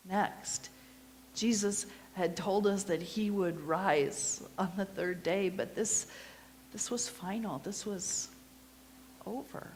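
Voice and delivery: intimate first-person storytelling as a grieving disciple; Mary's witness monologue. Acted. Mary telling the congregation her story, earnest storytelling. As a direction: tell it as Mary, remembering Easter morning.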